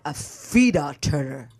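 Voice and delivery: slow, drawn-out theatrical delivery; dramatic name. Shown as a demonstration. Guest demonstrates her dramatic name, slowly drawn out. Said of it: "It's so dramatic".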